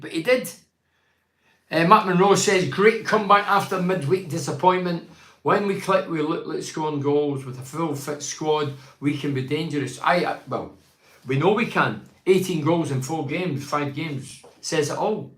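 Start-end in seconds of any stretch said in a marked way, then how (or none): 2.7-10.0 raised, deliberate read-aloud voice; reading out a comment. Real, not acted. Host reads a match comment to listeners, raised read-aloud voice.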